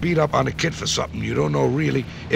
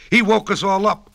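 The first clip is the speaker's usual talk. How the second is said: clucking hen; 8 semitones higher, 7 dB louder than usual. A narrator's reading. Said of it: "clucked the big mother hen".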